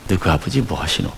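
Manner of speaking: put-on a light Gyeongsang accent, falling on 아버지; mild imitated Gyeongsang accent; Gyeongsang dialect. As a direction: quote the Busan phrase he learned. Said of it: "경상도 말".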